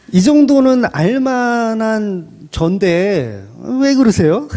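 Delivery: a slow plaintive complaint to God; whiny complaint. Retold or imitated. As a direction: whine it at God, slowly.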